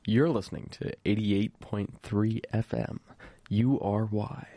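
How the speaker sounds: measured station ident in a radio voice. Pretend. Host naming the station to listeners, radio voice. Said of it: "really good radio voice".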